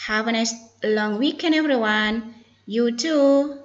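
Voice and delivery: careful pronunciation demo; model dialogue reading. Shown as a demonstration. Teacher models the closing replies for students, careful and clear. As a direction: read each reply out clearly for learners. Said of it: "focus to pronunciation and intonation".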